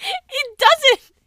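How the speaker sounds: high, loud contradiction; indignant high-pitched outburst; exasperated shout. Real, not acted. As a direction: yell back in disagreement. Arguing it does not look good.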